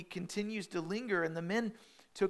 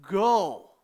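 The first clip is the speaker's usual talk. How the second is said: urgent rescue; 3 dB louder than usual. Retold or imitated. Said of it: "grabbing them by the hands and going".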